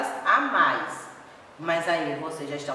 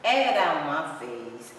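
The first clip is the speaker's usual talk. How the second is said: storybook opening; 4 semitones lower, much slower than usual. Shown as a demonstration. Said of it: "histórias que começam assim".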